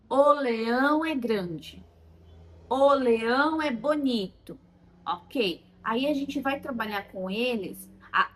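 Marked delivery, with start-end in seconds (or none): 0.1-1.8 put-on slow, careful child's simple sentence; limited child answer. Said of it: "Por exemplo". 2.7-4.6 put-on slow, careful child's simple sentence; limited child answer. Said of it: "Por exemplo".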